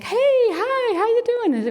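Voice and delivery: high, cheery passerby greeting; singsong mock-friendly hello; friendly greeter. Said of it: "I get somebody like".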